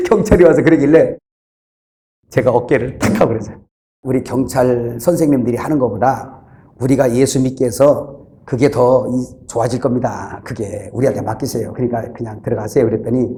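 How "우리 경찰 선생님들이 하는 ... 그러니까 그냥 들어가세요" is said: low, soft, placating voice; quiet persuasion. Retold or imitated. Preacher asking police to leave it to him, quiet persuasion. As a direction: re-enact politely talking an officer round.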